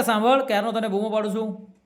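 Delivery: mock husband yelling across the house; impatient call. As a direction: call out again, a bit fed up. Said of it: "ચાલીસ ફૂટ દૂર રહીને બૂમ મારે છે".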